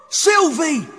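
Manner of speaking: high urgent shout of a name. Acted. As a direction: call out in alarm. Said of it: "Spike shouted".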